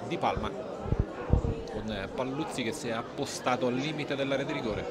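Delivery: calm measured match commentary; live play-by-play. Real, not acted. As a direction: call the action steadily.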